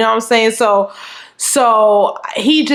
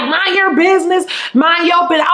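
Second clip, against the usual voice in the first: retold angry retort; 6 semitones higher than usual. Boyfriend snapping at meddling co-worker.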